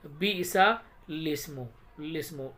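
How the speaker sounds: "लिस्मु" begun straight on the ल sound; direct लाम. Shown as a demonstration. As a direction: say "बिइसा लिस्मु" with no इ before the ल. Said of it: "लाम पढ़ेंगे direct". ("लिस्मु" सीधे लाम से शुरू)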